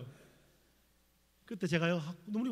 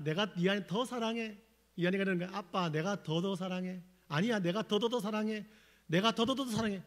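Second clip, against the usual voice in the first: a teasing game of who loves more, climbing higher; dad outdoing his son, 더 stacked and lifted higher; playful love contest; 3 semitones higher than usual. Retold or imitated. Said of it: "또 물었어요".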